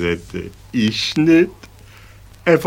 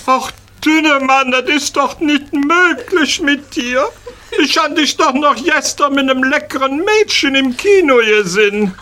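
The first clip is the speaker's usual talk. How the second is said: high, whiny lament, much higher; mock wailing; 13 semitones higher than usual. Schäl moaning over his bandaged friend, high mock wail. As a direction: wail at the hospital bed in a high voice.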